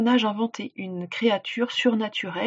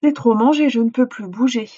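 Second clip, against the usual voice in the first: stuffed grandmother; 3 semitones higher, 6 dB louder than usual. Acted. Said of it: "elle déclara".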